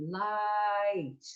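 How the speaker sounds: light held on ah; diphthong on ah. Shown as a demonstration. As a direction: sing light on the ah. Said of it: "If you say it slowly".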